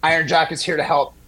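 upbeat host-read sponsor spot. Acted. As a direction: sell the product like a radio ad.

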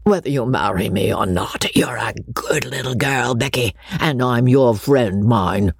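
lightly voiced rustic old squire; a hint of a fond country gentleman; kindly old baronet. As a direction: reassure her as a gruff old friend.

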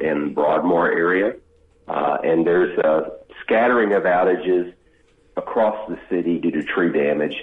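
tinny speakerphone sound; phone speaker. Real, not acted. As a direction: caller on speakerphone with echo. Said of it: "could you take us off speakerphone".

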